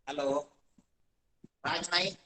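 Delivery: faint voice on a dying mic; very soft, far from the mic; barely audible. Real, not acted. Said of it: "Sorry, your voice is very low".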